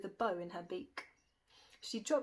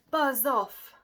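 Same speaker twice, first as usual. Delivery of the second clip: loud, slow monster voice, higher and forceful; terrible monster voice; 4 semitones higher, 7 dB louder, much slower than usual. A narrator's reading. Beast warning the dragon off the witch, loud slow monster bellow. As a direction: bellow it out like a many-headed beast. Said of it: "its terrible voice ... a growl".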